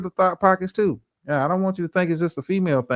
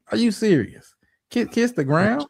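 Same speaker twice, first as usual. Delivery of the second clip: incredulous; 5 semitones higher than usual. Real, not acted. Disbelief at being told to worship.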